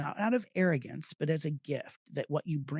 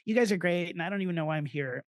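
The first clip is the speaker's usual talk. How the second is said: nervous rambling; 3 semitones higher, faster than usual. Retold or imitated. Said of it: "shaking and going".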